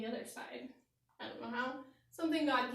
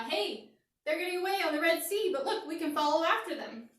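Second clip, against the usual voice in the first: eager shout; 5 semitones higher, 4 dB louder than usual. Acted. Egyptians spotting escape.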